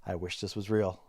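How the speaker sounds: soft, low murmur of a quote; imitated whisper. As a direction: drop your voice to quote a private whisper. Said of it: "you hear him whisper".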